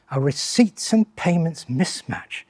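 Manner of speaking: slow, soft, mock-impressed echo of the jargon; dry ironic repeat. Shown as a demonstration. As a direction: savour the jargon slowly with quiet irony. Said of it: "That sounds good".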